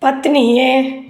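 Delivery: measured phrases with long gaps; slow dictation. Acted. Teacher dictating question and answer to students, slow dictation. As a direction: dictate piece by piece for note-takers.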